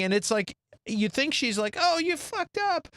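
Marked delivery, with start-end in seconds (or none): 1.8-2.9 high, drawn-out mock reproach; slow, high-pitched pretend upset; acted dismay. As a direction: imitate a horrified wife, pitched way up. Imagined wife's horrified reaction.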